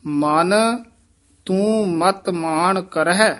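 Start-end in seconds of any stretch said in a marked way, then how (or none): 1.4-3.3 brief stop after ਕਰਹਿ; short halt after ਕਰਹਿ. Shown as a demonstration. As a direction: pause at ਤੂੰ ਮਤ ਮਾਨ ਕਰਹਿ. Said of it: "ਇੱਥੇ ਠਮਕ".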